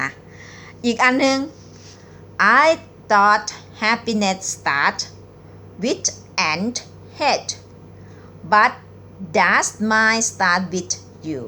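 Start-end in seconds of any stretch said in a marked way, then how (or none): 2.6-11.4 very slow reading. Shown as a demonstration. Teacher reading a pickup line very slowly to viewers. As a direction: read each word out slowly, with pauses. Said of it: "หนิงจะอ่านช้าๆนะคะ".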